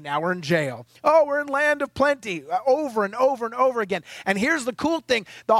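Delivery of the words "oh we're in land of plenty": mock celebration. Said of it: "These guys would like".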